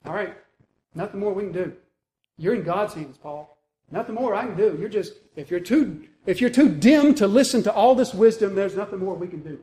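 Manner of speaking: acted exasperated giving up on a stubborn friend; pessimistic frustration. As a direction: throw in the towel, irritated and resigned. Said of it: "pessimism and anger and frustration".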